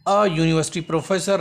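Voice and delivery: slow reading of both choices; teacher reading the options slowly; slow dictation. Shown as a demonstration. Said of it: "हाणे हिते जेकॾहिं तव्हां note न कंदो".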